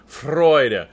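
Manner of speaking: Freude with a spat F and rolled R; spitting Freude. Shown as a demonstration. Director demonstrating Freude to the choir, spitting consonants. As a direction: make the F and R spit in Freude. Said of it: "Hear how I'm actually making that sound".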